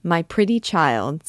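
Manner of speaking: slow and deliberate; slow, emphatic flattery; with emphasis. A narrator's reading. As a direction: lean on each word. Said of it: "said Phoebus with emphasis".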